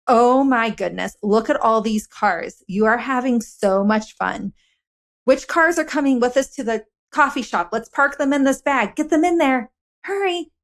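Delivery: playful coaxing. Retold or imitated. Mom coaxing her son to pack his cars, playful and eager. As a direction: lure the toddler along with excitement.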